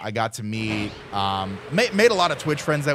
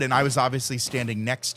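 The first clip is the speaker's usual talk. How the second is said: usual speaking voice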